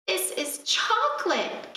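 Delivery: high, breathless wonder at the wall; like a boy finding a treasure; amazed gasp. Acted. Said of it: "gasped Hansel".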